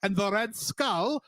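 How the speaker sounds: put-on Cockney, drifting off target; Cockney accent. Cartoon Wolverine bragging about the war, in wobbly Cockney. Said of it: "You went total Cockney".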